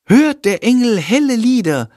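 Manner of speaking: put-on girl on stage calling her cue line to the sleeping boys. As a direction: call the line out across the stage. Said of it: "ruft sie".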